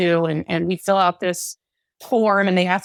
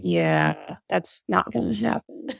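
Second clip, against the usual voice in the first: dismissive husband; 5 dB quieter, slower than usual. Retold or imitated. Husband answering romantic wife, dismissive. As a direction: lightly imitate an unimpressed husband.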